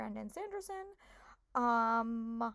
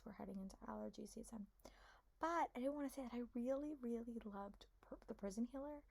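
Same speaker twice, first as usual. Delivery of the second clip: whispering; 11 dB quieter than usual. Real, not acted. Quiet aside about her health.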